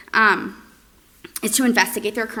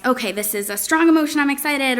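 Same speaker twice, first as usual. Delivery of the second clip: excited; 5 semitones higher, 5 dB louder than usual. Shown as a demonstration. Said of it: "when you use intonation and recognize".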